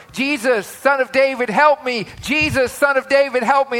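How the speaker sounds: high, repeated mock cries for help; retold yelling. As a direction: act out the blind beggar calling. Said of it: "be telling them the story".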